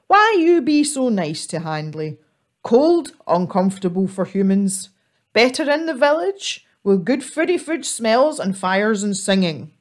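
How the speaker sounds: a big lonely troll offering to share; gruff troll voice. Acted. Troll welcoming the little squirrel, loud gruff voice. Troll Handley questions Ethel.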